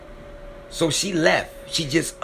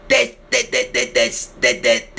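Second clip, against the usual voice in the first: emotional stammer; 3 semitones higher than usual. Real, not acted. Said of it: "I get so emotional".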